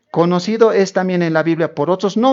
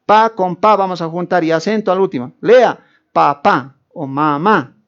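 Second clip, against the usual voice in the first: louder, higher teacher addressing a class; schoolteacher; 3 semitones higher, 4 dB louder than usual. Acted. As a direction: lead children through syllables, word by word. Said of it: "La profesora, el profesor".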